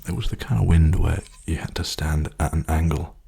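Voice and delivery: soft, hushed ASMR talk; softly spoken. Real, not acted. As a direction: speak gently, half whispered. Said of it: "I'm gonna keep being softly spoken".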